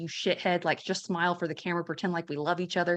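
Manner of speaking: ordinary talk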